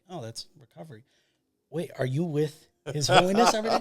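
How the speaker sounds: high, loud, laughing disbelief; excited disbelief. Retold or imitated. Filmmaker asking the physician, loud with laughing disbelief. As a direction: pitch it up and laugh through the question. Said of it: "I'm like".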